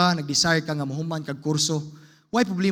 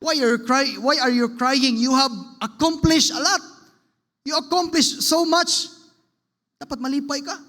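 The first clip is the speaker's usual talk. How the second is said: family comforting; 5 semitones higher than usual. Retold or imitated. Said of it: "ingon niyang iyang asawa, iyang mga anak".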